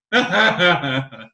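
mock bawling in short bursts; cartoonish crying. Fan mimicking wrestler bawling with bloody face, cartoonish crying. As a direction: fake a cartoon character bawling their eyes out. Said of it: "like cartoonish crying".

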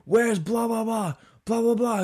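high, loud mock ranting; imitated crazy screaming. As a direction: scream it like a raving stranger bursting in. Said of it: "he's screaming just crazy shit".

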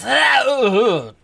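acted dazed "ah, ooh"; sagging groan that rises then drops; knocked-out groan. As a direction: groan like you're going down. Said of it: "He goes".

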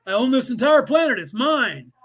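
mock tyrant claiming the whole planet; mock greedy claim. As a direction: lord it over everyone, mockingly. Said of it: "That's what the cabal is saying".

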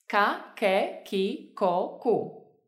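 Ka, ke, ki, ko, ku with almost no puff of air; unaspirated K. Shown as a demonstration. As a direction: drill Ka, ke, ki, ko, ku, holding back the air on each K. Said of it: "Recuerda no echar casi aire".

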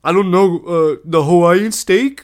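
high, loud panicked blurting; mock scaredy cat. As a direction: imitate a flustered waiter, drawing out the guess. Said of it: "the biggest fucking scaredy cat".

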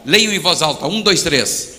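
loud, counting in the congregation; loud cue. Real, not acted. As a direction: call out the count to the crowd. Cues congregation to read aloud.

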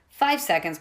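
a panicked satyr counting down; panicked countdown. Acted. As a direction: call out the seconds left.

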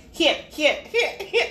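high mock squeal of here; imitating Gina. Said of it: "Gina went".

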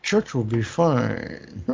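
slow deadpan mumble; flat deadpan voice. Retold or imitated. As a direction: say it slowly, deadpan. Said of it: "This guy".

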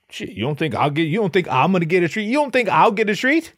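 rising indignant disbelief; hammed-up outrage building up; worked-up husband. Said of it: "And he's like".

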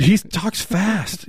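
high, drawn-out rocker voice; hammed-up rocker; a rock singer. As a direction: stretch it out in a rock star impression. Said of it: "I do a spot on a rock singer".

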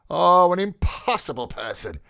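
exclaiming. A narrator's reading. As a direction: throw up your hands in exasperation. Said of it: "he exclaimed".

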